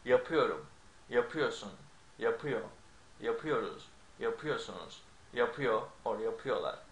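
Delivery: Yapıyorum with the stress on the ı of ıyor, then the same on each form. Shown as a demonstration. Teacher demonstrating positive verb stress, ı of ıyor stressed. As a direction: lean on the ı of ıyor in each word of the list. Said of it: "So it's like this".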